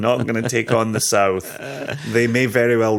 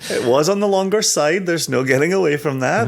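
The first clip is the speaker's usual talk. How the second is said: high and louder, sheepish; sheepish high reply; 5 semitones higher, 3 dB louder than usual. Real, not acted. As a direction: admit it with a wry laugh. Defensive joking reply.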